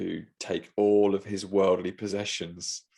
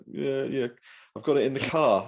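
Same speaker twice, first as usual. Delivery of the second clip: imitating the seller; 5 semitones higher than usual. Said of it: "And he's like".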